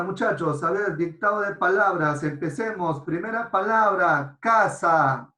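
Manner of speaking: dictando en voz alta y marcada, casa bien fuerte; voz de dictado. Pretend. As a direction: como un profe que dicta a toda la clase. (dictado en voz alta)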